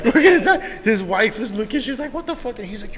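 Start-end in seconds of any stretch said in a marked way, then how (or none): 0.0-0.6 loud, high, hammed-up terror; mock panic. Repeats the panicked line. 2.1-2.6 very high, startled imitation; mock alarmed wife. Retelling wife's shock.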